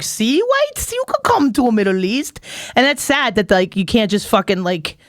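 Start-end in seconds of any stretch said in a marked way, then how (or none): 0.0-2.4 high, sing-song come-on; mock tourism pitch. Dubai beckoning white tourists, a high sing-song pitch. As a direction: lure the tourists in. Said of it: "set up where it's like".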